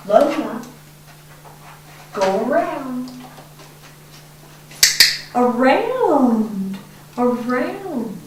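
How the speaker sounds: firm, expectant dog command. Shown as a demonstration. Trainer giving her dog a firm command. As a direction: say it like you expect her to obey. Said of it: "So there's a command tone".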